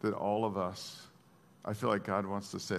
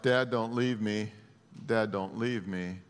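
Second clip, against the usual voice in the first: retold childhood cry. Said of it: "when I cried out".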